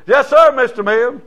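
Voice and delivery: hammed-up polite answer to a rich man; deferential. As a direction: lay on the respect for the millionaire. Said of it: "you always say "Mister" to a millionaire".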